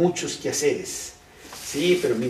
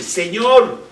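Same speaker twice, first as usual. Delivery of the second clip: indignant cry; 6 semitones higher, 13 dB louder than usual. Acted. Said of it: "le dice".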